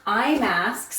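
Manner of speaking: winded from the stairs; breathless, panting between words; out of breath. Real, not acted. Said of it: "I'm so out of breath".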